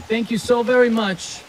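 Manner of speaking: steady formal military address voice. Acted. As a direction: speak like an officer addressing the ranks. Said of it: "I guess I'll use my military voice".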